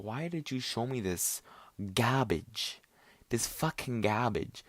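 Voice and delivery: spaced-out, incredulous reproach; retold exasperation. Asking his friend why he showed this, retold exasperation. Berates friend for showing him the video.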